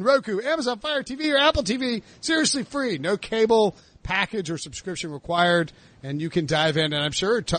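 upbeat plug with lifted list items; host's ad read, punching the selling points; promo read. Real, not acted. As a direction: pitch the free streaming network to listeners. Reads a promo for the sports network.

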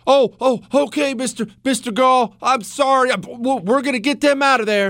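high, nervous, stammering apology; groveling Roman consul. Retold or imitated. Consul apologizing to the Gallic chief, high and groveling. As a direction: play a cowering official begging forgiveness. Host mocks cowering Rome.

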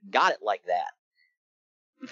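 slow, stretched-out swagger line, every word enunciated; Disco Inferno's drawl. Retold or imitated. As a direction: lean back and drag it out like a cool disco guy. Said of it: "he enunciates the hell out of it".

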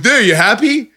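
high-pitched fed-up retort; mock exasperated comeback; imitated sarcastic compliance. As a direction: act out grudging surrender. Acts out sarcastic giving-in.

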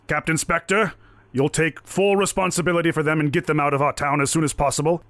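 lightly voiced figure of authority; stern town captain. Captain charging Spectre with the outsiders, stern.

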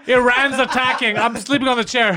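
giggling through a mock crisis report; laughing mock alarm. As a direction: play it as a joke panic while laughing. Mock world leader panic, laughing.

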